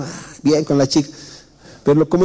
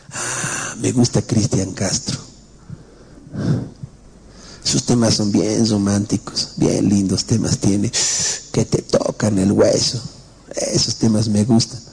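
put-on dreamy young man; 7 semitones lower than usual. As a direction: lean back and gush about the ballads. Joven describe su música. (joven suspirando por sus canciones románticas)

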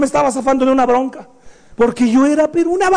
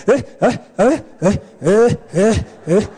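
mock sobbing; 4 semitones lower, slower than usual. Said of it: "¿Cómo te quedas llorando?".

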